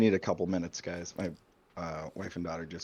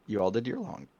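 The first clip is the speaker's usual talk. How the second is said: real crack in the voice on "long"; faster than usual. Real, not acted. Game master asking about the long rest, voice cracking. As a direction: let the voice slip and break mid-phrase. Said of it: "ah, God, my voice".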